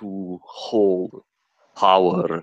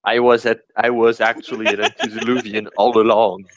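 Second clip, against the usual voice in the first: laughing; 3 semitones higher, much faster than usual. Pretend. Joking villain reveal.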